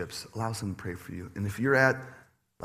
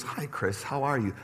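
softer, tender quoted hello; wife greets him softly, tender and quiet; soft wife greeting; 4 dB quieter than usual. Retold or imitated. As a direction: say it gently like a loving wife. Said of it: "she goes".

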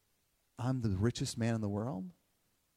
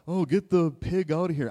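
put-on teasing kids; 5 semitones higher, 7 dB louder than usual. Voices his kids teasing him.

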